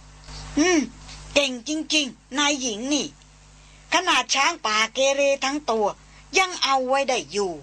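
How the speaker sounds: lightly voiced old tracker muttering praise; old hunter grumbling. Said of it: "เสียงพรานครูผู้เฒ่าบ่นเบาๆ".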